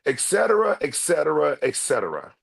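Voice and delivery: rising-then-falling royal "et cetera"; mock king. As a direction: drop the voice a step each time, like a king. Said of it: "Let the crash report tell it".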